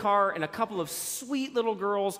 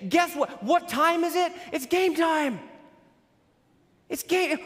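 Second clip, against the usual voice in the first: hyped rally call; 7 semitones higher than usual. Retold or imitated. Paul calling the church into the huddle, hyped rally cry. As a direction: fire up the church like a captain. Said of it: "and he's saying".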